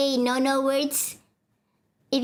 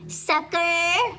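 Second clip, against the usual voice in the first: high cackling laugh after a taunt; gloating laugh; 8 semitones higher than usual. Acted. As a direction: gloat over the fooled hero. Villain taunt then laugh.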